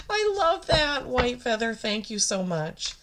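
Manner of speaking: high, squeaky, choked-up gratitude; emotional. Real, not acted. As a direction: start very high, overcome, then ease down. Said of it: "I'm very emotional right now".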